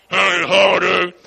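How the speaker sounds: a bright put-on store greeting; mock clerk greeting. Imitating the Walmart clerk's holiday greeting. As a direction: chirp it like a cashier.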